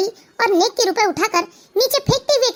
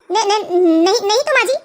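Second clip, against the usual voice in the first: hesitant, stumbling denial; nervous stammer. Acted. Cornered daughter-in-law answers mother-in-law, stammering nervously. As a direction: falter on the first syllables.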